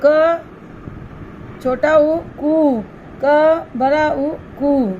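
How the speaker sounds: each matra drawn out slowly; slow spelling out. Shown as a demonstration. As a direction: spell it out slowly for young pupils. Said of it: "teacher spells matra forms".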